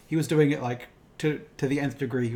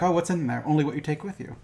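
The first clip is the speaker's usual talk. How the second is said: Yoda line; 3 semitones higher than usual. Retold or imitated. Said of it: "he's like".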